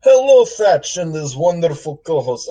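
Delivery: lightly voiced tough-guy gangster; a hint of an old-time mobster. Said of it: "I'm gonna read this mailbag in a gangster voice".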